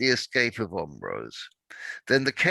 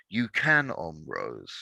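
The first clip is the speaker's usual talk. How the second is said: gentle reassurance; 5 semitones lower, slower than usual. Acted. Awa reassures trembling mistress.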